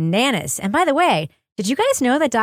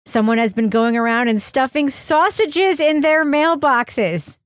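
lightly dramatized news report; mock news read. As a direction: read a silly crime story as serious news.

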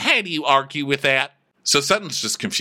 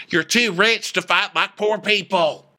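mock scolding; 5 semitones higher than usual. Comic telling off two rich women, mock scolding. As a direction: scold them with mock outrage.

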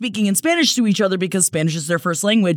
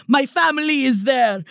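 mock Hilaria accent; 5 semitones higher than usual. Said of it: "she's like".

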